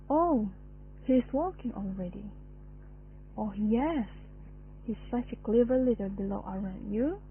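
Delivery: put-on lightly sing-song coo to a toddler; mild hint of a mother's sing-song baby talk; doting baby talk. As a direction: gently coo it like talking to a little child. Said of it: "Uttered with high pitch and a sing-song intonation".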